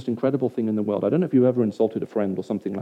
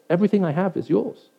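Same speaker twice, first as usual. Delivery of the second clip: higher-pitched earnest plea; pleading; 6 semitones higher than usual. Acted. Father coming out to his angry older son, pleading. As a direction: plead with him, pitch lifted. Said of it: "The father now pleads with the older son".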